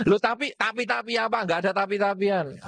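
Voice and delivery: mock quarrel retort; arguing back. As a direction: refuse to hear them out. Acted quarrel, the reply.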